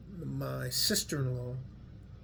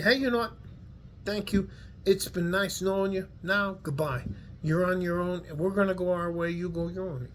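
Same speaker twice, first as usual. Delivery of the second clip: mock goodbye; 4 semitones higher than usual. They tell guys without support, sarcastic farewell. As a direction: cheerfully wave him away, mocking them.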